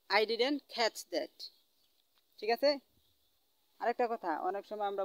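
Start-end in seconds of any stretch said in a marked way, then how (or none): 0.1-1.4 very slow, word by word English; very slow teaching demo. Shown as a demonstration. Teacher modelling a polite request for students, very slowly. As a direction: stretch every word for the class. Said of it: "কি বলবেন?".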